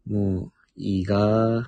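slow Kagoshima-style もういいがー with a drawn-out がー; Kagoshima dialect. Shown as a demonstration. Recalling how Ami talked, slow Kagoshima dialect. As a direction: stretch the がー the Kagoshima way, slowly. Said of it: "アミなんて言ったっけ？".

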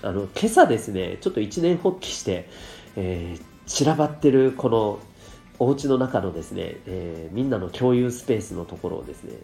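stuffy blocked nose; talking through a cold; nasal voice. Real, not acted. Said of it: "かなり鼻声ですよね。".

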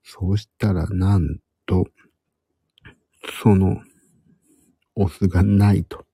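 hushed whisper throughout. Real, not acted. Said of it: "今日はひそひそ声で話しております。".

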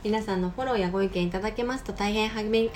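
polite listener appeal, read out; courteous programme sign-off; scripted podcast outro. Acted. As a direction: read the closing request in formal announcement style. Co-host reads the scripted outro.

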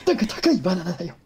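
high, quick comic impression of a kindly boss; gentle Takeshi. Co-host plays kindly Takeshi to Dankan, gentle impression. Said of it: "優しいたけしはいいねんな".

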